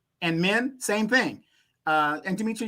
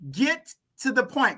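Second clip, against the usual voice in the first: blunt; 7 semitones higher than usual. Retold or imitated. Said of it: "I had to tell her".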